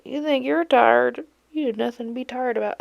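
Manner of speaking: mocking quote. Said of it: "I hate when people say that".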